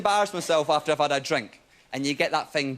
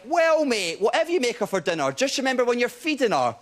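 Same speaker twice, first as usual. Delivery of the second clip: put-on raised-pitch drunk voice; drunkenly advise, pitched up, drawing out the ending; drunken advice; 5 semitones higher than usual. Drunk man advising his mate on dinner, high-pitched. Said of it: "Drunkenly, I went".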